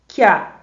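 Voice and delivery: "que a" as one loud isolated KYA; fused syllable. Shown as a demonstration. Teacher repeating the vowel fusion, "que a" merged into KYA. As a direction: punch out "que a" as a single syllable. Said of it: "como houvesse uma fusão sonora".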